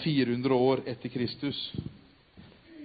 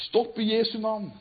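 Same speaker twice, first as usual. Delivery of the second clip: higher, firm call; calling stop; 8 semitones higher, 5 dB louder than usual. Acted. Monk calling to the gladiators as he runs, raised voice. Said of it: "og så sier han".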